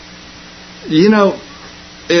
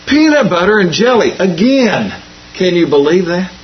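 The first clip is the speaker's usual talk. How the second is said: a touch higher, mock-exasperated kid; annoyed schoolkid; 4 semitones higher than usual. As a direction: lightly play the fed-up kid at lunch. Kid complains second day.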